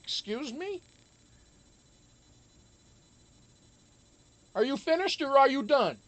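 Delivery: high, sassy diva clapback; a singer's line. Retold or imitated. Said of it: "thank Tamar Braxton for that line".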